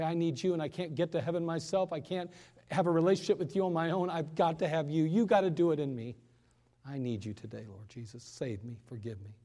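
plain and sincere, fading into a soft hush; a quiet, humble sinner's prayer that fades away; simple prayer. Shown as a demonstration. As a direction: pray it simply, dropping to almost nothing. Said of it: "You don't even have to say it like that".

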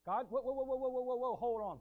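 mock alarm, rapid repeated whoa; astonished whoa. Real, not acted. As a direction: slam on the brakes in disbelief. Preacher halts in astonishment.

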